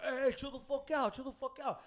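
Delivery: acted-out order to calm down; mock warning. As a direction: imitate the big guy stepping in. Big man breaking up fight.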